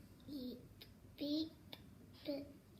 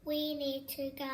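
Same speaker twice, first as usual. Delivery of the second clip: with expression; 5 dB louder than usual. Shown as a demonstration. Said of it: "How do we say it?".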